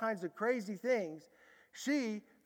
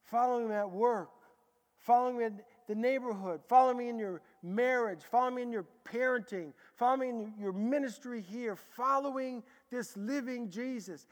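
repeated stress on Following, building; preaching refrain; 2 semitones higher, 3 dB louder than usual. Real, not acted. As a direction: hammer Following at each line start.

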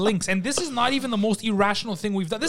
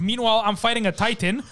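ordinary talk

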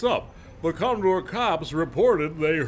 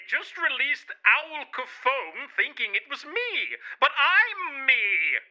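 crying; 11 semitones higher than usual. Acted. Crying heard on lines.

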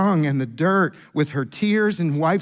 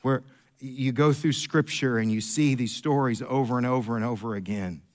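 much softer and lower, intimate; quiet preaching; 8 semitones lower, 6 dB quieter than usual. Acted. Preacher softly telling the church about his dad, hushed. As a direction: draw them in with a hush. Quiet sermon run after whisper demo.

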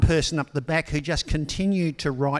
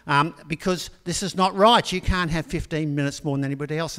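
louder, firm mock reprimand; a professor laying down the rule; angry professor; 2 semitones higher, 4 dB louder than usual. Professor refuses the late student, firm louder voice. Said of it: "And the professor says".

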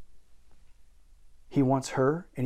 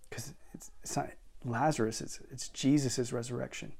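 whisper; 7 dB quieter than usual. Real, not acted. Hushed aside.

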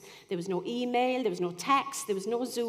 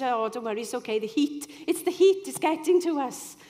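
rising, louder, cheery brush-off; bright reassurance; 3 semitones higher, 5 dB louder than usual. Retold or imitated. She reassures the embarrassed man, cheery and rising. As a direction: laugh it off with a lift. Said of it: "I said".

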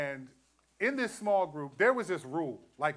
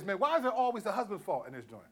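higher, half-laughing gripe about always being blamed; mock outrage at the group's rule, pitched up; retelling his old complaint to his wife, higher and mock-indignant; 6 semitones higher than usual. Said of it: "'cause I used to say this".

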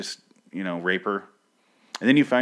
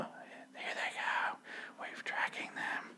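slow hushed whisper, no voice at all; breathy stalking whisper, drawn out; mock whisper; 16 dB quieter, slower than usual. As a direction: whisper like a tracker sneaking up. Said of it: "like, whispering the whole time".

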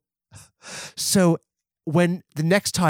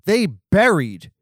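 gleeful build-up; 5 semitones higher, slower than usual. Real, not acted.

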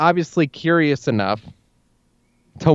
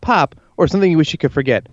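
show host intro. Acted. Show intro over music.

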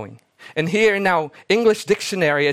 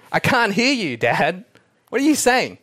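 higher, louder calling out to her father; frustrated daughter; 5 semitones higher, 3 dB louder than usual. Retold or imitated. Daughter shouts to her whispering father, pleading. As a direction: strain to be heard over silence. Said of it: "the daughter says".

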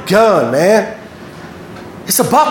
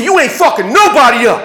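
angry defiance; 5 semitones higher, 3 dB louder than usual. Retold or imitated. Kid answering the threat back.

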